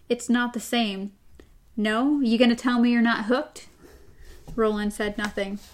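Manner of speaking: reading the novel's dialogue aloud to co-host; steady read-aloud of a tense talk; story reading. A narrator's reading. Host reads Roland and Eddie's exchange, story reading.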